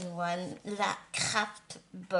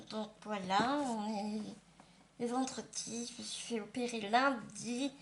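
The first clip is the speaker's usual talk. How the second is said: slushy lisp, s turning to sh; lisp after dental surgery. Real, not acted. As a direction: talk with a fresh post-surgery lisp. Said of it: "un peu avec un cheveu sur la langue".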